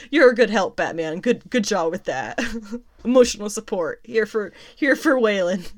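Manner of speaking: lightly sarcastic, amused praise; mock praise. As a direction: tease him for being no help at all. Mockingly praises Batman's useless response.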